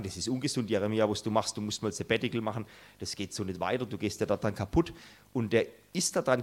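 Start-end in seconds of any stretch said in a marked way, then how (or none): 0.0-4.9 softly, a notch quieter, like a worried friend; hushed, caring counsel to an overworked man; mild imitation of gentle well-meant advice; gentle concerned advice. Well-meaning modern advice to Jeremia.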